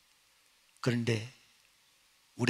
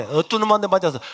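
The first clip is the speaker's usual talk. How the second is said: angry teacher; 5 dB louder than usual. Retold or imitated. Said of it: "선생님이 열받아가".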